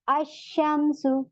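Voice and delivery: अशमसु very slow, with the a going straight into a doubled sh; silent lam. Shown as a demonstration. Teacher shows the students a sun letter. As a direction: stretch अशमसु without any l. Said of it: "अश direct मैं हमजा को शीन में मिला रही हूँ".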